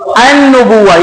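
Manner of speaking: "النبوہ" with no L, straight into a doubled n; lam left silent. Shown as a demonstration. Teacher tests students on lam, silent lam in "النبوہ". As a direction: drop the L and lean on the n in "النبوہ". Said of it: "لام کی آواز آئی ہے یا نہیں".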